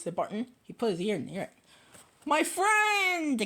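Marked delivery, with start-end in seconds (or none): 2.2-3.4 tiny voice. Acted. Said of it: "came the voice".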